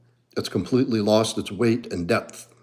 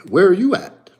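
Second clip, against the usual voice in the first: mocking Jersey guy; 8 semitones higher, 5 dB louder than usual. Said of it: "he's like".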